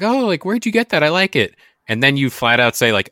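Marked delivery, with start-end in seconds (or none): 0.0-1.5 higher, sing-song questioning partner; curious partner voice. Retold or imitated. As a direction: play the nosy partner admiring it.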